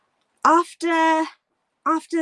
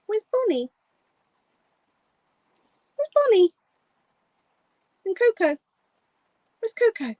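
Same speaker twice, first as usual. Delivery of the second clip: excited pet talk; 2 semitones higher than usual. Real, not acted. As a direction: get the dog excited to look. Excited names to dog.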